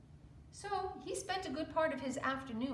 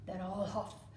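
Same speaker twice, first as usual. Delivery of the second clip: much louder, slow wolf threat; threatening wolf; 4 semitones higher, 12 dB louder than usual. Acted. Wolf threatening the pig's straw house, loud and slow. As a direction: roar the threat slowly. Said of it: "said the wolf".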